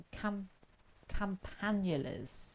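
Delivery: slow, halting go at "campanulas"; unsure of the Latin, "campanulas" drawn out; tentative pronunciation. Real, not acted. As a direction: sound out "campanulas" slowly and carefully. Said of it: "I'm probably butchering the Latin language".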